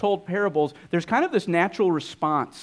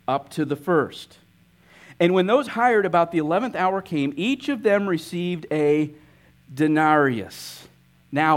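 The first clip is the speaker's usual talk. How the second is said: scripture reading. Acted. Reads the parable aloud.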